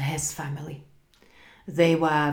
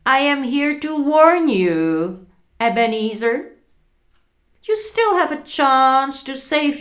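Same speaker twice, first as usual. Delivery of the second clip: unearthly voice; 6 semitones higher, 7 dB louder than usual. Acted. Marley's ghost warns Scrooge.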